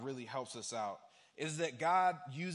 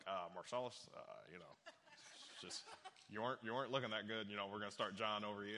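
low, halting then hurried head coach; hesitant bad news; 7 semitones lower, 6 dB quieter, much faster than usual. Head coach telling a player he's benched, hesitant and low. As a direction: let him down awkwardly, pitched low.

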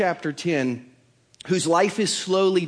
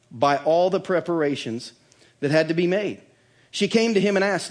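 usual speaking voice

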